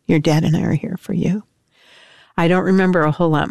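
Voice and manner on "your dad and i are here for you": whispered reassurance. Retold or imitated. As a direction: breathe it to him, barely voiced. Mother comforts son in jail.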